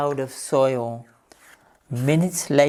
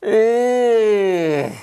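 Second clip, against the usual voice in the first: high, louder startled exclaim; surprised cry; 6 semitones higher, 4 dB louder than usual. Acted. Duck seeing the rabbit's round dropping, crying out surprised. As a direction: react to the odd thing in shock. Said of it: "cried Dora".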